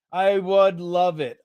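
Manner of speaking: slow, earnest insistence; mean every word of it; I would love it, drawn out slowly and sincerely. Real, not acted.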